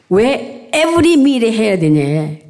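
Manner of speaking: put-on slow child's Korean with English words; korean american accent. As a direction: imitate a Korean American kid asking slowly. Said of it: "그거를 했더니 며칠 전에는".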